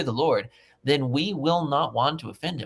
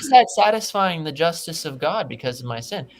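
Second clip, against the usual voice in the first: raised, incredulous rhetorical question; exasperated; 6 semitones higher, 6 dB louder than usual. Real, not acted. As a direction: throw the question up in disbelief. Exasperated rhetorical question about penance.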